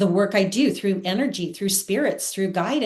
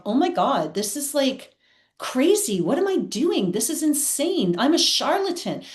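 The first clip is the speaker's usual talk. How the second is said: panicked inner thought; 5 semitones higher than usual. Retold or imitated. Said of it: "thinking to myself".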